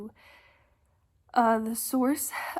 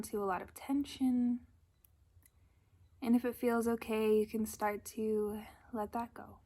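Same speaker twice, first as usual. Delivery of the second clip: calm, unhurried guidance with long pauses; gentle meditation leader's delivery; guided meditation. Acted. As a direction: ease listeners into breath and body, leaving space. Leads a breathing meditation.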